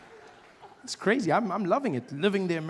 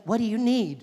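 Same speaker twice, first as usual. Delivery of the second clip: lightly voiced phone assistant, a little higher; Siri; 5 semitones higher, 3 dB louder than usual. Phone assistant answering its owner, lightly put-on helper voice. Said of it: "She's like".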